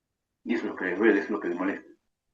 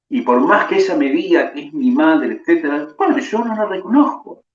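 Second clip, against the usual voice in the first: son's inner thoughts; 3 semitones higher, 5 dB louder than usual. Acted. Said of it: "en su mente se pregunta".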